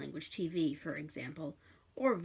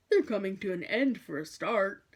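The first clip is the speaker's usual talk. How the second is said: grinning demon; 5 dB louder than usual. Acted. Ligur grinning.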